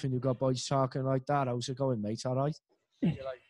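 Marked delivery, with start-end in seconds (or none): 1.5-2.6 demonstrated Cardiff lads' talk; Cardiff accent. Shown as a demonstration. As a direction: imitate the boys from Cardiff. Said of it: "down the road to Cardiff".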